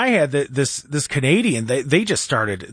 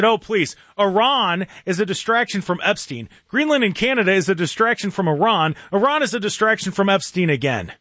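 higher mock whine of a Canadian troll; mocking quoted Canadian; 5 semitones higher than usual. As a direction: parrot them with a sneer. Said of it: "They said".

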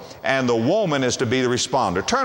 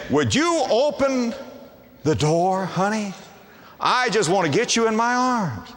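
lover at the door; 7 semitones higher than usual. Retold or imitated. Husband voiced pleading at door.

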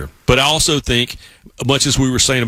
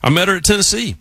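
higher, mock-indignant retort; retold exasperation; 8 semitones higher than usual. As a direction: toss it off like a cheeky protest. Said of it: "I'm like".

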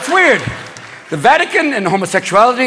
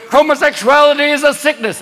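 preaching evangelical; 4 semitones higher than usual. Acted. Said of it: "the evangelicals going".

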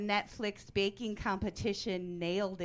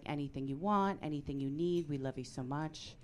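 low tender dad voice; 4 semitones lower, 4 dB quieter than usual. Retold or imitated. Husband to gay daughter.

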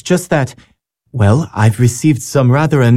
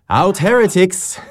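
playful mock yell; 8 semitones higher than usual. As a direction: imitate children yelling in play. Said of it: "they're not yelling".

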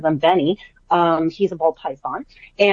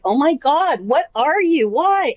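higher-pitched, playful dismay; mock exasperation; 8 semitones higher, slower than usual. Owner to her crazy dog, mock exasperated. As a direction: wail it in mock disbelief at the dog.

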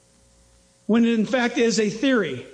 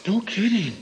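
mock gasp; 3 semitones lower than usual. Mock amazement at tooth find.

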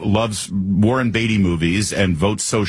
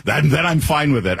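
higher-pitched imitation of a bargaining tenant; put-on, pitched-up objector; mock self-interested resident; 4 semitones higher, faster than usual. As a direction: parody someone reasoning out their own advantage. Acts out the clip speaker's reasoning.

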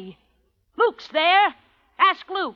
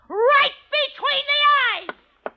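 gleeful threat; 11 semitones higher than usual. Acted. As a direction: savour the threat aloud. Relishing threat.

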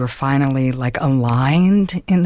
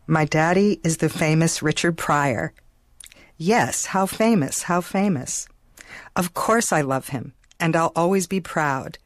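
put-on slow, careful reading of a child's poem; unhurried recital of a childhood poem. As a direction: read the little poem slowly, line by line. Reads her childhood poem aloud.

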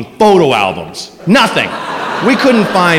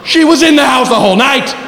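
laughing shout; 8 semitones higher than usual. Real, not acted. Comic reliving the shock for the audience, laughing shout. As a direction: crack up while yelling it.

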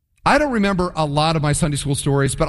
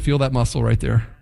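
low, swaggering brag to the wife; a hint of a low boastful soldier; 7 semitones lower than usual. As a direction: puff up like a proud soldier showing off. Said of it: "gone home to their wives and said".

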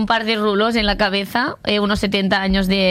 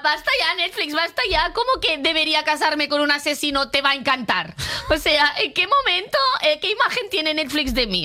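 higher-pitched, exasperated rant at Netflix; mock outrage; 5 semitones higher than usual. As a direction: scold Netflix in comic disbelief. Ranting indignantly at Netflix.

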